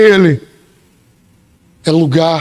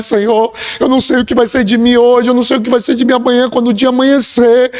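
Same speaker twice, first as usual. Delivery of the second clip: pleading prayer; 4 semitones higher than usual. Pretend. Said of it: "se apresentar diante dele e dizer".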